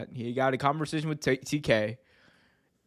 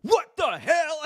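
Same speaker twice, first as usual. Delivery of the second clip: put-on high-pitched outburst, accent dropped; Booker T breaking character; 12 semitones higher, slower than usual. Friend imitating a wrestler seeing his messed-up locker room, breaking character. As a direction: blurt it out in comic disbelief.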